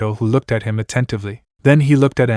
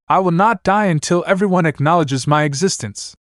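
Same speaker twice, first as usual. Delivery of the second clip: higher, resolute battle cry; defiant shout; 6 semitones higher than usual. Acted. Naruto charging the ogre, defiant shout. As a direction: vow it as he charges. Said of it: "he shouted".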